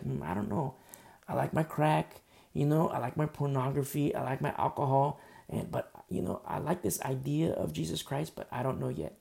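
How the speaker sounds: mock hesitant musing; undecided thinker. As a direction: think aloud, lightly wavering. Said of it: "somebody's kinda, like, thinking".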